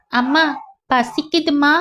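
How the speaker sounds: a hint of a hungry little boy; hungry child. Small son tells mother he is hungry.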